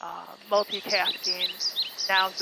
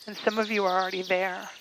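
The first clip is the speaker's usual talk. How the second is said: phrases spaced out by long, unhurried pauses; guided meditation. Acted. Guide asking listeners to become aware of their body, guided meditation voice. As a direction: lead them inward, letting each phrase settle.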